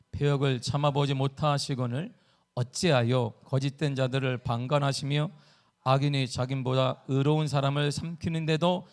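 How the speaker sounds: low, even, measured recitation; scripture reading. Shown as a demonstration. Preacher reads Habakkuk's verse to congregation, measured recitation. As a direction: read the verse out steadily at a low pitch. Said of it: "하박국 일 장 십삼 절입니다".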